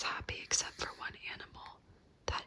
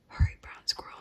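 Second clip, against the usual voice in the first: called; 7 dB louder than usual. Acted. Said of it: "she called".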